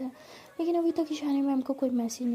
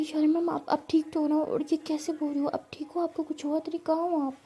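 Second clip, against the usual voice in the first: anxious and a little higher; worried friend checking on her teacher; 3 semitones higher than usual. Acted. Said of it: "परी बहुत घबरा रही होती है". (घबराई हुई चिंतित आवाज़)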